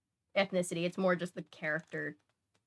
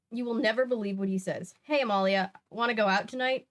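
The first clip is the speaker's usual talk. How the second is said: reading a novel aloud; 3 dB louder than usual. Acted. Streamer reading the book to chat, lively read-aloud. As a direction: read the diary entry with energy.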